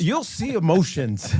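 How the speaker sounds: amused, drawn-out punchline; laughing. Real, not acted. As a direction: chuckle as you land on emotions.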